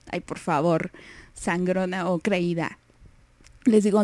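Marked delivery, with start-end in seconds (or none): 0.1-2.8 mock snooty. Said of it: "Grosera, así de".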